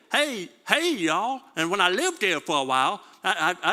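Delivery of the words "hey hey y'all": put-on a bright Southern accent, higher on the first Hey; playful Southern accent greeting. Pastor hamming up the Southern greeting, Southern accent. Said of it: "That's how you would say it in the South".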